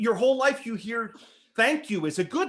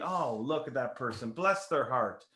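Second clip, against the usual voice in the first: soft example; 7 semitones lower, 7 dB quieter than usual. Shown as a demonstration. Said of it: "if I say to you".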